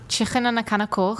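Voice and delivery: put-on Liverpool accent, "coke" said with a rough back ending; light Scouse accent attempt. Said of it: "Yes. Good job".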